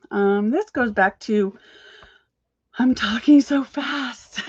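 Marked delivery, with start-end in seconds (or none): 2.8-4.5 higher, drawn-out words through laughter; slow, giggly aside to the audience; amused self-interruption. Real, not acted. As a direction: laugh at yourself as you say it. Catches herself rushing, laughs at herself.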